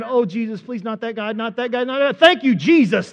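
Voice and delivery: pleading prayer. Acted. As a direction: beg under your breath, then burst into thanks. Acting passenger praying as people pass.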